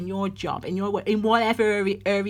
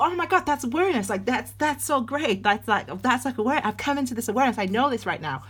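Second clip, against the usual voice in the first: gushing fake American accent, higher and fast at first; 5 semitones higher than usual. Imitating a newly self-aware person in a mock American accent. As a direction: play a starry-eyed American, breathless with discovery. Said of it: "that was my American accent".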